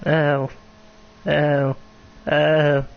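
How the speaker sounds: drawn-out, bleating little ow; sheep-like ow. Real, not acted. Streamer hurting in game, sheep-like ows. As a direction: let each ow come out like a sheep. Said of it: "I sound like a sheep".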